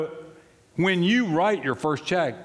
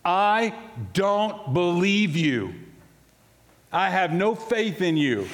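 raw honest confession; 5 semitones higher, slower than usual. Retold or imitated. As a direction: tell God straight out you don't believe. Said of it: "get to this".

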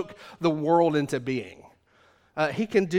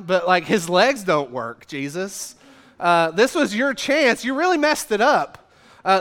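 mock exasperation; 3 semitones higher, 4 dB louder than usual. Complaining at Jesus, mock exasperated.

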